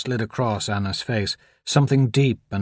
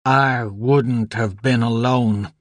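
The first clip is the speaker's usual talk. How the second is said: slow, teeth-clenched hiss of rage; hissed through teeth; slower than usual. Acted. Donald hissing at Anna in restrained anger. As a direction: force it out between clenched teeth. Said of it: "he hissed through clenched teeth".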